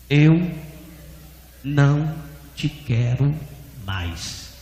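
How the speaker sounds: slow, word by word with long pauses; each word spaced out, fading on the last; voice of God. Retold or imitated. God rejecting the proud pastor, slow solemn pronouncement. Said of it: "ele ouviu uma voz".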